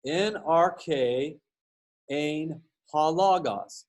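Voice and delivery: "En arche ein ha logos" read slowly, syllable by syllable, as Koine Greek; reading Greek aloud. Shown as a demonstration. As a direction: sound out "En arche ein ha logos" carefully like a teacher. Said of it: "So this says".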